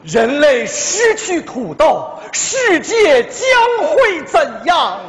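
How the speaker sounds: very slow, dramatic rising ad question; ad slogan. Pretend. Husband performing another potato slogan for his wife. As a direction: pose it like an epic commercial. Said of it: "广告词我都想好了".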